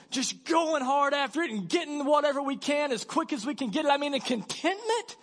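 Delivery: high, pushy mock hustle voice, half shouting; mocking go-getter voice.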